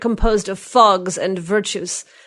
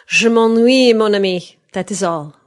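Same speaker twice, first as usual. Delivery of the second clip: shrugging; 3 semitones higher, 7 dB louder, slower than usual. A narrator's reading. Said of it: "with a shrug of the shoulders".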